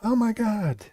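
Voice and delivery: high, loud sudden surprise; shocked exclamation. Real, not acted. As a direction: gasp it out in shock. Reacts to chess move.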